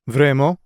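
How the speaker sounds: Vraiment said as a French question, rising at the end. Retold or imitated. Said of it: "he questioned in French".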